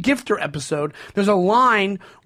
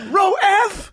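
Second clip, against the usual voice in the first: laughing quote; 13 semitones higher than usual. Retold or imitated. Quoting Kramer to a co-host, laughing hard. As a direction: crack up mid-line. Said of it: "he's like".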